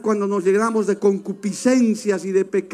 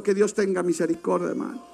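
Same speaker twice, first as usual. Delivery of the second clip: sorrowful; 6 semitones lower, 6 dB quieter, faster than usual. Acted. Lament over fallen leaders.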